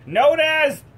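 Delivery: slow, high hype announcement; announcer shout. Acted. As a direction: bellow it like a ring announcer. Announcing a hero's entrance.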